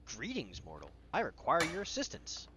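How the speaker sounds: lightly voiced formal gnome; a hint of a storybook gnome. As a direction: play a gnome making a grand request. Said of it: "out pops this gnome".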